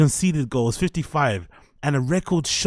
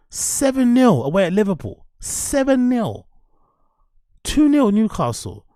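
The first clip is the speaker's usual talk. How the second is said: loud, higher ranting about the results; real rage, shouting the scorelines higher and louder; furious rant; 6 semitones higher, 5 dB louder than usual. Real, not acted. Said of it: "Sorry for that rage".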